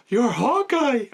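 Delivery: high-pitched excited fangirl squeal; gasp, then squeak it out in awe; starstruck gasp. Retold or imitated. Starstruck fan recognizing her hero, excited squeal.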